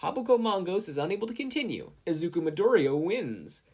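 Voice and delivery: bright loud ringside call; cheering. A narrator's reading. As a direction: announce the winner with a cheer. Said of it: "Midnight cheered".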